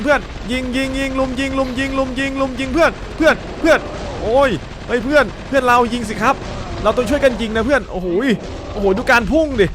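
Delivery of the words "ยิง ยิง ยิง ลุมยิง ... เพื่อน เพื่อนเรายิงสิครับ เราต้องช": panicked gamer shouting; frantic yelling. Real, not acted. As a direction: scream at friends to shoot. Frantic boss fight, calling teammates.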